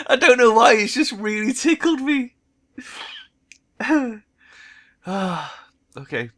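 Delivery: high and loud, still tickled; words riding the leftover giggles; giggly. Real, not acted. Narrator explaining why the line tickled them, giggly. Giggling after laughing fit.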